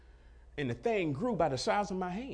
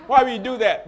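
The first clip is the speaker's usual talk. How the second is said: laughing; 7 semitones higher, 14 dB louder than usual. Real, not acted. Repeats question, laughing.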